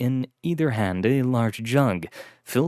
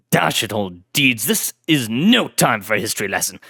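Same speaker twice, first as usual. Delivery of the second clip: louder impatient English lord cutting in; 3 dB louder than usual. Acted. Blackwood interrupting his butler, impatient aristocrat. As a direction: brush off the lecture testily. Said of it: "The impatience in Lord Blackwood's voice".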